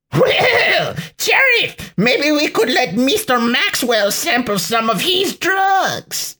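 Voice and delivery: put-on very high, gleeful Hispanic-accented villain; hammed-up Hispanic accent, pitched far up; thick Hispanic accent. A narrator's reading. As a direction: suggest it wickedly in a cartoonish Hispanic accent. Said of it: "in a thick Hispanic accent".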